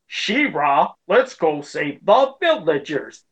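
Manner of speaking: slow, stiff, robotic imitation; mock a wooden hero voice; mechanical robotic Bo. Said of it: "Bo was, like, real mechanical".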